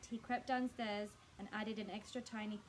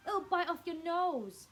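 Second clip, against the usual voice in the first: slow, louder, creepy threat; mock threat; 7 semitones higher, 8 dB louder, slower than usual. A narrator's reading. Mr Twit scares his wife about the frog, slow and louder. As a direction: spook her deliberately, drawn out.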